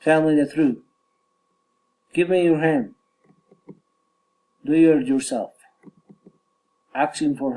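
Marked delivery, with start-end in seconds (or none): 0.0-0.8 firm falling end on "truth"; falling command. Shown as a demonstration. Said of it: "falling intonation". 2.1-3.0 falling end on "hand"; falling command. Shown as a demonstration. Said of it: "falling intonation". 4.7-5.5 falling end on "yourself"; falling command. Shown as a demonstration. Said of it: "falling intonation".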